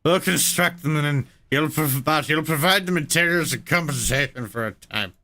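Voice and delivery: a light hint of a YouTuber narrator; Laserpig-like voice. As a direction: smith read like a video essayist, lightly. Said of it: "it sounds like Laserpig now".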